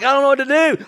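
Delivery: mock helpless panic. Retold helplessness over choking dog.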